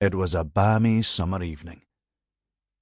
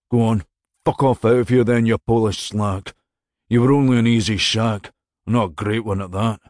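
contemptuous dismissal; 5 dB louder than usual. Acted. Lover scornfully dismisses her.

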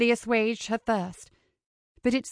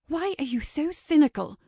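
higher-pitched, mildly hoarse demand; hushed demand; 5 semitones higher than usual. A narrator's reading. Ava challenging Kincaid among wedding guests, high hushed demand. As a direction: demand it, high and held back from others. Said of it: "she demanded in a hoarse whisper".

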